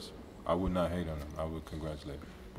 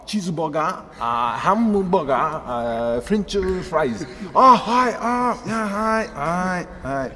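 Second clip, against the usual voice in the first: high, loud hammed-up Japanese accent; Japanese-English accent; 10 semitones higher, 10 dB louder, much slower than usual. Player mimics ordering burgers in Japan, hammed-up accent. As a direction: squeal the order like a Japanese diner. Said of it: "I can order food easier because with the accent".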